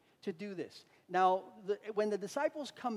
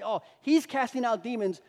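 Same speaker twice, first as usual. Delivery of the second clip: louder mock accusation from religious leaders; raised, scornful retelling of accusers; imitated ridicule; 4 semitones higher, 7 dB louder than usual. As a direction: jeer it publicly, lightly acted. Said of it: "ridicule him".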